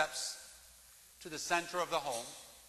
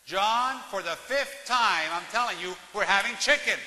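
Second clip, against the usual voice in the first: exasperated wife; 3 semitones higher, 7 dB louder than usual. Retold or imitated. Wife answers husband fed up, loud exasperated. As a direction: snap back, fed up with repeating. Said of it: "And his wife said".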